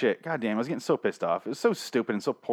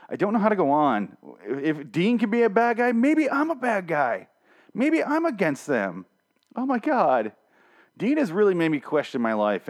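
mock despair; 7 semitones higher than usual. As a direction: drag it out like a melodramatic breakdown. Mock existential crisis.

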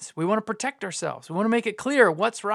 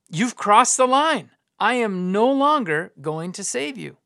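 raised, slow and emphatic pronouncement; stern ultimatum; 3 semitones higher, 3 dB louder, slower than usual. Acted. Preacher voicing God to his people, stern ultimatum. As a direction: lay down a verdict, word by word.

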